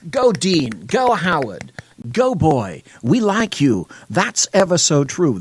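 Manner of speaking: very high, sing-song fawning praise; hammed-up adoring cheerleader; mock gushing leftists. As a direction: gush like a fawning fan, way up high. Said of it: "many leftists went".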